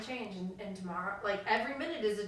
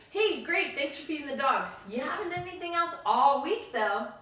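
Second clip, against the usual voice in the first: louder mock-cheery thanks with a barbed twist; sarcastic fake praise; 3 semitones higher, 5 dB louder than usual. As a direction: thank the kid, then slip the dig in.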